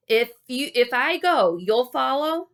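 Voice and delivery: mild loud call; crying out. Acted. Wally asking Gary to promise, mild cry. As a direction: call out, unsure. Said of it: "I cried".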